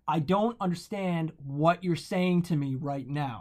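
slow, spelled-out delivery as if to someone deaf; retold yelling. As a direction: imitate talking down to someone, word by word. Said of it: "Yelling at him like he's deaf".

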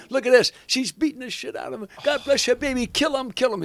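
high, shrill cheering for the fight; egging her on from the crowd; cheering stranger. Retold or imitated. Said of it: "the guy's saying".

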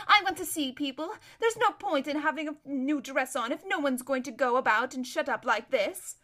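airy chatter turning to a mild whine; self-absorbed, lively grumble; spoilt society lady. Acted. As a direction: offer help, then complain about the curtains.

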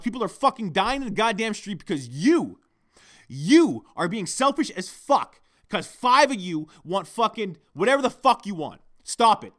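loud, high furious tirade; angry rant. Real, not acted. Ranting on his podcast at rail-blocking protesters, loud and furious. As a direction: let the anger pour out at full volume. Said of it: "I'm gonna rant now".

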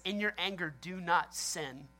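slow, measured scripture recital; scripture reading. Retold or imitated. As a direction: read the verse slowly, letting each phrase land. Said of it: "Psalms four four says".

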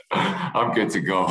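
chuckling, brushing off the concussion; laughing insistence. Retold or imitated. Laughing while insisting he's fine.

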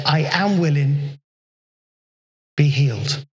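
lightly voiced, compassionate Jesus. A narrator's reading. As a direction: speak it as tender healing mercy. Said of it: "he looked at him with compassion".

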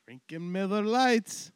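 high, very loud, slow; slow hammed-up cheer; mock rowdy toast. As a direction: belt it out like a backyard party.

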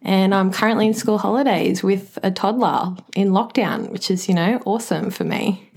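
understated, dry irony; dry sarcasm. Real, not acted. Teacher stuck in lockdown with a toddler, dryly sarcastic. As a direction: say it matter-of-factly, meaning the opposite. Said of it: "Sounded a little bit dry and sarcastic".

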